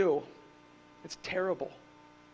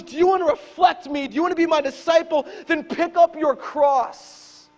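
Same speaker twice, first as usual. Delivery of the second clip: loud, high shouted challenge; Jesus shouting; 10 semitones higher, 11 dB louder than usual. Retold or imitated. Pastor voicing Jesus to the crowd, loud shout. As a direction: call them out, slowing on the cross. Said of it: "And Jesus goes".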